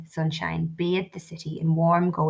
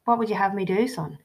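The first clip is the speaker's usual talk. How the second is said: gently; 3 semitones higher than usual. Acted. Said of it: "he said gently".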